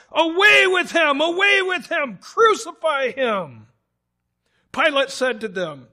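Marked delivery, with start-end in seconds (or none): 0.1-3.7 much higher, loud mob cry; crowd shout. A narrator's reading. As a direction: scream it like a mob. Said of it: "they cried out".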